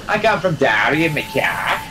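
put-on lightly done thick Derry accent; Derry accent impression. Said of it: "I did the full, uh, impersonation".

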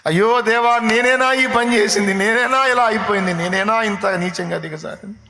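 high, loud wailing plea for mercy; pleading for mercy. Acted. David crying to God to forgive his sin, a loud pleading wail. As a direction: beg God for forgiveness as if weeping. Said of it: "బోరున ఏడ్చాడు".

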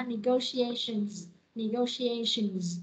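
slow "negotiations" ending in a clear Z; final Z sound. Shown as a demonstration. Teacher drills the ending for class, slow final Z. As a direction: draw out "negotiations" and sound the last Z. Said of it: "Âm giờ cuối ha".

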